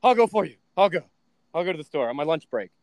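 frantic mom. Retold or imitated. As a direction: imitate a worried mother rushing in to help. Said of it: "And my mom's like".

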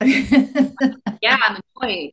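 a loud sulky "Yeah", then a grudging "I'm annoyed"; pouting child admitting it; mock grumpy kid owning up. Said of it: "I'm kind of like the kid".

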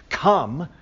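"Come" held out firmly; emphatic COME. Shown as a demonstration. Teacher showing the exclamation point's force, emphatic "Come". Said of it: "It's an emphatic statement".

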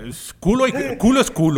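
fired up, hammering the point home; excited. Real, not acted. Guest gets carried away, loud and excited. Excited rant about culo.

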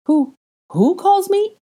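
stunned disbelief. A narrator's reading. Harry stunned the boy calls him Daddy, stammering high. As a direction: ask slowly, unable to believe it. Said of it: "his eyes wide".

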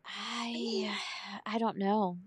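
soft whispered hesitation; a low, breathy-quiet, unsure start; hesitant. Real, not acted. Nurse unsure if she'd be let in, hesitant. Hesitant answer to hypothetical question.

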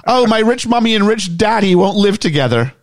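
high mock-whining rich girl; rich white girl. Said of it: "Rich White Girl Problems".

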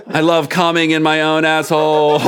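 line said while still laughing; laughing through it. Real, not acted. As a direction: push the words out through laughter. Narrator laughing through the quote.

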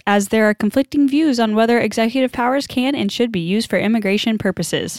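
steady news anchor delivery; newscaster read. Acted. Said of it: "You sounded just like a newscaster".

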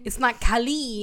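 "Cali" said the wrong way, pushed hard; mispronounced name. Shown as a demonstration. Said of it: "it's pronounced the same".

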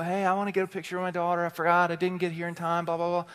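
mock hurried plea, tossed off in a rush; pleading mom. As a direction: rattle off the excuse as a flustered parent. Voices moms pleading at the door.

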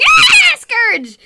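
very high, loud play shriek; mock panicked scream. Cats all running away from Scourge, hammed-up panic. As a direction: scream the name as if fleeing.

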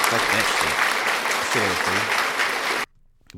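loud, dragged-out rant; emphatic outburst. Real, not acted. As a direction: slam every word, very slowly. Ranting about paying for ancestry test.

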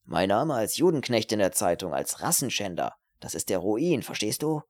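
tense outburst with swooping pitch; agitated young man fearing disgrace; nervous, agitated student. Acted. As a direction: plead his ruin with jumpy, uneven emphasis. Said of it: "zerknitterte nervös".

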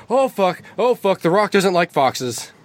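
high-pitched panicked yelp, half-shouted; mock frightened scream. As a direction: play a big tough guy scared stiff, hammed up. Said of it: "gives a scream at this fox".

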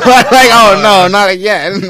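high panicked yelp; mock panic. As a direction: squeal it like you're being chased. Fleeing squads like runaway slave.

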